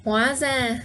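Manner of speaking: hóa ra at natural sentence speed; just say it naturally. Shown as a demonstration. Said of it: "to say it naturally in a sentence".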